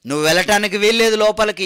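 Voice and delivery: fast, loud, stern official shutting him out; stern refusal. Acted. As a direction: bark the refusal at the late runner. Army officials refuse the late runner. (కఠినంగా, గట్టిగా నిరాకరించే అధికారి)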